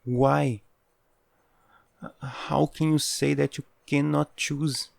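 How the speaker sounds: high, rising disbelief; shocked disbelief. Acted. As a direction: cry out in disbelief. Shocked at refusal to choose.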